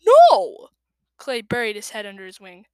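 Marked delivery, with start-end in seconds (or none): 0.1-0.7 high, loud whine of refusal; whining refusal. Acted. Clay refusing Tsunami, a high loud whining no. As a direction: yell no like a stubborn kid.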